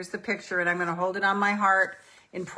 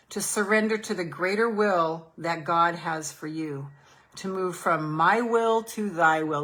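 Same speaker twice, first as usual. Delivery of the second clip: guided meditation. Acted. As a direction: coax them gently into letting go. Leads a surrender meditation.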